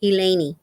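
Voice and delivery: Eleni said ee-LAY-nee; Spanish-style name pronunciation. Shown as a demonstration. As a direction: end Eleni on a clear "nee". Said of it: "it's pronounced Eleni".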